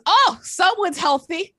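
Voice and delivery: high, loud, slow fake-sweet jab; mock passive-aggressive compliment. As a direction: imitate a mom slipping an insult into praise. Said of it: "like a passive-aggressive turducken".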